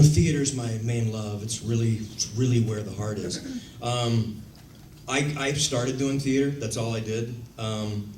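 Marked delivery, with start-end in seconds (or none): 0.0-3.4 mock earnest thespian. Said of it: "every thespian in Hollywood is gonna claim that".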